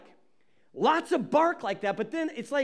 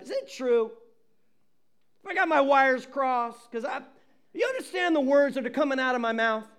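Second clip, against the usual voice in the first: mock angry king; 3 semitones higher than usual. Preacher voicing angry king Nebuchadnezzar.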